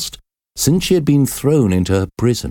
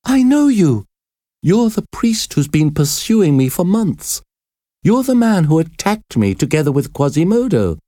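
high, agitated accusing voice; fear and surprise; 8 semitones higher than usual. A narrator's reading. Prisoner recognizes the priest who pursued her, frightened and shocked. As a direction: accuse him high and frightened, short of a scream. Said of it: "Esmeralda screamed in fear and surprise".

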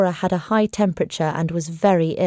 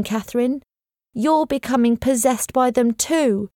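lightly raised voice of the anxious housekeeper; a hint of the fretful old servant, pressing on; nervous housekeeper, lightly voiced; worried housekeeper; 4 semitones higher than usual. Mrs Groves pleads urgently.

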